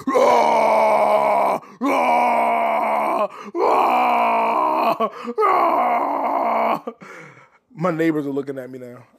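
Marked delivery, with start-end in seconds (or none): 0.1-6.8 long loud roars, one after another; hammed-up beastly roar. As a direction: let out drawn-out "rah" screams. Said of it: "going, "Rah!".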